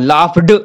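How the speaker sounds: लाफ्ड with the final ड barely released; soft held-back ending. Shown as a demonstration. Teacher showing students लाफ्ड with a soft swallowed ending. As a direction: swallow the ड of लाफ्ड and keep it inside the mouth. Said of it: "मैं इसको पूरा नहीं बोल रहा हूँ".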